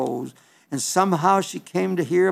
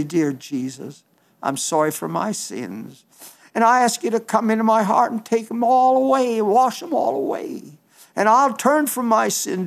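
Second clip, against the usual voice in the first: sample prayer; 4 semitones higher than usual. Shown as a demonstration. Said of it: "And you just come and say".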